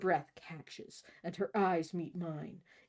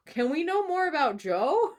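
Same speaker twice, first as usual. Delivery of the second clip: high-pitched eager plea; excited; 10 semitones higher, 6 dB louder than usual. Real, not acted. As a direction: squeal it out, excited. Playful demand, high excited.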